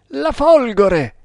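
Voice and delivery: high, drawn-out cry; alarmed exclamation. A narrator's reading. Servant warning master of the lightning strike, high exclamation. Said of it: "esclamò Kammamuri".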